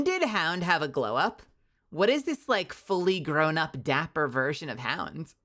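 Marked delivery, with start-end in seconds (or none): 1.9-5.3 shocked. Real, not acted. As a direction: lose it over the fan art. Reacting to dapper fan art.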